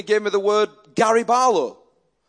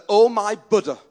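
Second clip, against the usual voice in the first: laughing punchline; 5 dB louder than usual. Retold or imitated. Punchline of the friend's quote.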